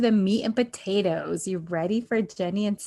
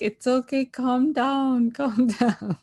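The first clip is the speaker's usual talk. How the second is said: lightly voiced dad, a little higher; mock calming plea, laugh breaking in; retold soothing dad; 4 semitones higher, 4 dB louder, slower than usual. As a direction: imitate a dad trying to settle everyone. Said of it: "The dad is like".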